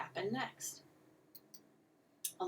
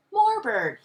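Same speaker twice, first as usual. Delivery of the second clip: put-on high, loud toddler demand; high shout that drops at the end; baby crying out; 6 semitones higher, 10 dB louder than usual. A narrator's reading. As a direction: cry out like an eager baby. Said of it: "he cried, panting".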